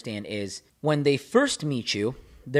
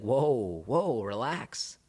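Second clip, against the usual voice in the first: dismissive; 4 semitones higher, slower than usual. Retold or imitated. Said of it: "they might call you and be like".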